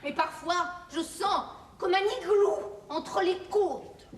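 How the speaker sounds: slow and wistful. Acted. Wife's dreamy complaint.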